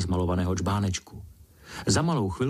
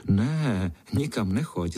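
hasty plea; slower than usual. Acted. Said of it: "řekl jsem honem".

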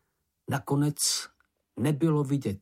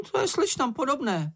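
much higher squeaky sneer; snide Sniff; 13 semitones higher than usual. A narrator's reading. Sniff remarks on silly girls, high smug voice. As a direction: sniff it out smugly. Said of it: "poznamenal Čenich".

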